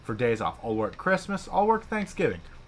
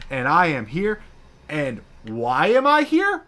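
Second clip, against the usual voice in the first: loud, high, heated rant about missing staff; loud mock rant, building indignation; retold angry rant; 4 semitones higher, 5 dB louder than usual. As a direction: replay the blow-up at the managers. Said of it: "I'm fuming".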